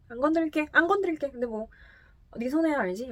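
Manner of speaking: a drunk Italian shrugging you off, lightly voiced; drunken Italian accent. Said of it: "이탈리아 발음 막 섞인 채로". (이탈리아 억양으로 살짝 흉내 낸 술 취한 말투)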